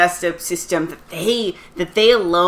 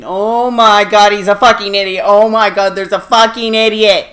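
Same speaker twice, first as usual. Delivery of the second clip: mock exasperation; 2 semitones higher, 6 dB louder than usual. Acted inner exasperation.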